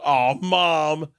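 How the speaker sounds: put-on high, loud kids telling Mom; mock-children calling to their mother; imitated daughters. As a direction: sing out a slow, teasing tattle. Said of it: "Georgia and Isla go".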